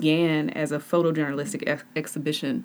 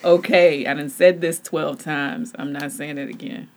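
imitating exasperated co-host; 4 dB louder than usual. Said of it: "you're entering into it like".

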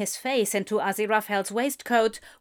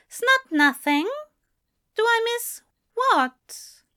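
higher-pitched, probing character voice; insistent questioning; 13 semitones higher, 4 dB louder than usual. Acted. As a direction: press for an answer, pitched up. Gentle pressing of evasive partner.

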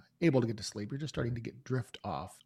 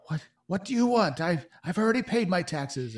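higher, louder, pleading father voice; a frightened shopkeeper protesting; panicked father; 7 semitones higher, 7 dB louder than usual. Acted. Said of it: "the father of the girl, says".

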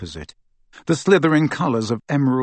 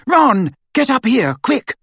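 high, loud, urgent scream; 13 semitones higher, 7 dB louder, slower than usual. A narrator's reading. Hermione summons Ron from over the banister, screaming. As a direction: scream for him down the stairwell. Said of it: "and screamed".

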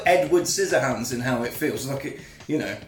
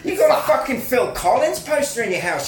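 mock lad insults; 6 semitones higher, 3 dB louder than usual. Mocking the teenager's insults.

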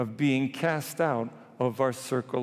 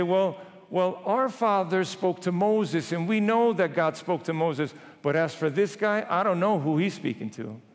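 indignant; 5 semitones higher than usual. Acted. Pharisees rebuking the healed man, indignant. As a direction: lay down authority with mild indignation.

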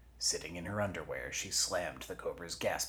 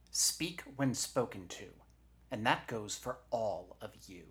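firm, raised-pitch reprimand; stern scolding; 5 semitones higher than usual. Acted. Eugenia scolds her talking body parts, stern and higher. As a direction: lay down the rule.

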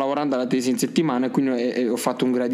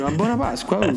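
bright higher Easter greeting; cheerful; 8 semitones higher than usual. Real, not acted. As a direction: burst out with the wish. Belated festive greeting.

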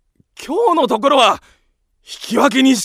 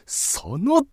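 angry yell; 5 semitones higher, 3 dB louder, slower than usual. Acted. Angry confrontation.

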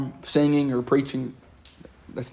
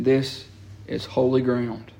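solemn declaration; 2 semitones lower, 5 dB quieter, much slower than usual. Acted.

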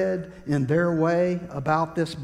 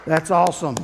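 cheering crowd; 5 dB louder than usual. Acted. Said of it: "the crowd would clap".

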